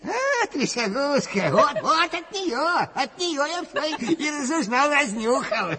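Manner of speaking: high, eager explanation; excited blurting. Acted. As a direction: blurt out your discovery. Proudly points out source of news.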